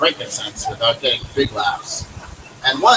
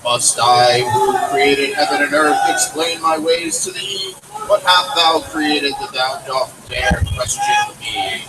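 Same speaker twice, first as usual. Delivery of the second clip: thundering Lord. Acted. The Lord answers Job, a lightly thundering slow voice. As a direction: boom out the Lord's rebuke slowly. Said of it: "his voice thundered".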